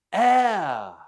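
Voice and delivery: "Heir" said like "air", falling; silent H. Shown as a demonstration. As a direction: leave the H off "Heir". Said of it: "it's a silent".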